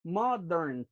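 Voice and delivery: "modern" sounded out in two drawn-out syllables; teacher showing the two beats of "modern"; two clear syllables. Shown as a demonstration. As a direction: stretch "modern" so both syllables count. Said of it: "two syllables".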